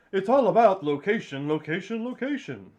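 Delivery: loud, salesy realtor pitch; gushing real estate agent. Pretend. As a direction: sell it like a pushy realtor. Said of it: "realtor agent's voice".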